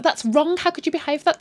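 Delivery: high, reproachful mother voice; mock arguing. Mother argues back at her daughter, mock reproach. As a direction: scold as a dismayed mother would. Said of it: "they're arguing back and forth".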